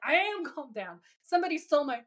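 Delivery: high-pitched agitated protest; mock panic. Dean insisting to Sam he is calm, mock panicked. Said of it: "Dean's starting to panic visibly".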